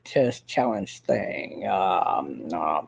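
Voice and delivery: halting, full of uhs, sinking into a mumble; a hint of Harry's hesitant drawl; imitating Harry. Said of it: "He talks like this".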